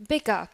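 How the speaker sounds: "Bigger" said as "bigguh"; British non-rhotic. Shown as a demonstration. Teacher repeats last one, British, no R. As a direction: leave the final R of "Bigger" silent. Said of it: "in British accent, we would say".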